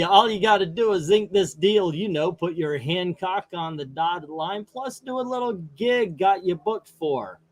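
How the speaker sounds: a hint of a smooth talk-show sidekick; Paul Schaefer voice. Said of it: "my best Paul Schaefer".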